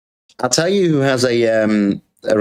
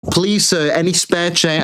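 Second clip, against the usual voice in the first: higher mock beggar; beggar plea; 6 semitones higher than usual. Streamer mimics a beggar outside Sainsbury's, mock plea. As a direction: beg like a street urchin, lightly. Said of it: "I'm gonna be like Oliver Twist".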